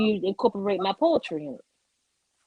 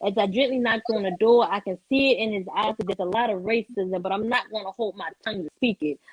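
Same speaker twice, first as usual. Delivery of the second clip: rhythmic performed poem with acted dialogue; spoken word poem. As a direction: deliver it like a slam poetry stage piece.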